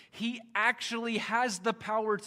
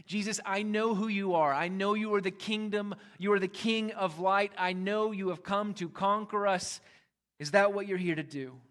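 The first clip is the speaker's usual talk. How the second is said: defiant demon; 3 semitones higher, 4 dB louder than usual. Acted. Demon voiced confronting Jesus.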